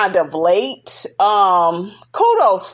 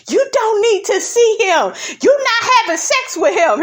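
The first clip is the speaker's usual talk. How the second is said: lightly voiced Giselle, pitched up high and snippy; mimicking Giselle; 12 semitones higher than usual. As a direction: toss it off like a catty reality star, a lot higher. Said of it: "Giselle was like".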